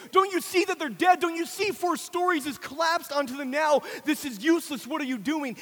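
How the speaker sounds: mock him with insistent, high-pitched questions; distraught mocking. Distraught parents challenging the digging father, mocking. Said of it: "distraught are mocking him".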